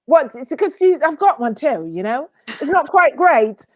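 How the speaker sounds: hammed-up amateur London accent; wobbly mock British English; put-on British accent. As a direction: defend your not-quite-great British accent. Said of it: "your British accent today".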